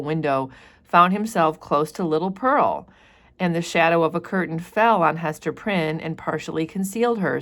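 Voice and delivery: measured read-aloud narration; reading the book to students; story narration. A narrator's reading. Reads novel passage aloud.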